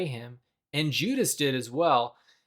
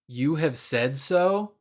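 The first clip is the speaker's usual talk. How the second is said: lightly sassy and slow, rising at the end; a mild cheeky question; slower than usual. Retold or imitated. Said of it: "it sounds kinda sassy".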